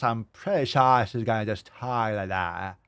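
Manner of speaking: lightly put-on mimicry of the girl; a hint of a mocked vlogger voice. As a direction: parody her lazy delivery. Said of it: "gonna talk like this".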